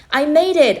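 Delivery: high, loud joyful yell; joyous yell. Acted. Boy yells to his uncle from the bank, joyous yell. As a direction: shout it out with pure joy. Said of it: "I yelled joyously".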